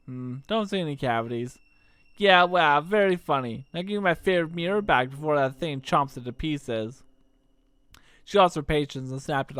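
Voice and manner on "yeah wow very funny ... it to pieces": put-on cocky young troublemaker; Kid voice. Kid teasing Serge, lightly voiced brash girl. Kid's voice.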